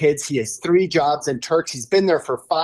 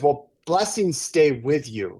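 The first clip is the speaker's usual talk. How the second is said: tearful, slow; 4 semitones lower, 4 dB quieter than usual. Retold or imitated. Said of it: "he's crying".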